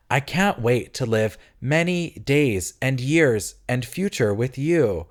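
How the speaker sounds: slow, sappy overly sincere thanks; slow mock heartfelt speech; mock gushing gratitude. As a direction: gush it out sentimentally. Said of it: "Reload leans slightly too much".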